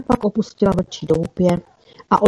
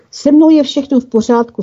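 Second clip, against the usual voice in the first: contented reply; 6 semitones higher, 4 dB louder than usual. A narrator's reading. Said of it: "spokojeně odpověděl Jaroslav".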